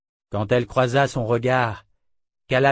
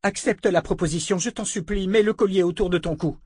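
pleading; 8 semitones higher than usual. A narrator's reading. Callan begs Richard.

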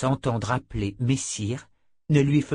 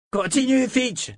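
high cheering call; cris d'encouragement; 13 semitones higher, slower than usual. A narrator's reading. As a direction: egg him on with a cry. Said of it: "crièrent quelques messagers". (encouragement crié, voix aiguë)

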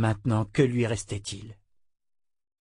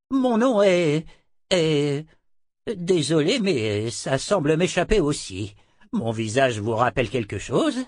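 lightly voiced old man, apologetic and higher; confused old man; 5 semitones higher than usual. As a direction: play a hint of a bewildered old man. (vieil homme désorienté, voix légèrement jouée)

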